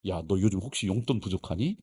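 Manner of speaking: low, gentle fatherly question; lightly voiced dad, checking in kindly; tender father. Father tenderly answering obedient son.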